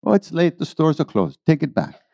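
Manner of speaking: high, innocent guru voice. Retold or imitated. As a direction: play dumb, pitched high. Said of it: "guru refusing".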